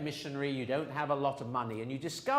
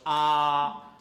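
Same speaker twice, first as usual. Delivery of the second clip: open vowel ah; 8 dB louder than usual. Shown as a demonstration. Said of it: "with most vowels".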